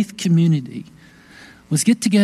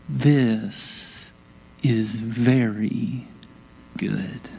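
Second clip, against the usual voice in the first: hushed; 5 semitones lower, 5 dB quieter, much slower than usual. Acted. God's words at creation, hushed.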